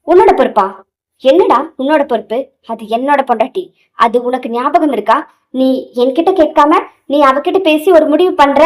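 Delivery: acted possessive indignation; indignant challenge. Anbu tells Karthik she is his wife, indignant. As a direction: throw his claim back at him, punching the questions. Husband disputes friend's claim over wife.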